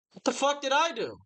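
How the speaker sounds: high, baffled outburst with a laugh; retelling a rude postal clerk, incredulous and laughing; disbelief. Real, not acted. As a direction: react like you can't believe it. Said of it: "reacting in disbelief".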